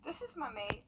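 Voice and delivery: Aussie accent, chatting to her pet lizard. Shown as a demonstration. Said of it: "I always talk to him in an Aussie accent".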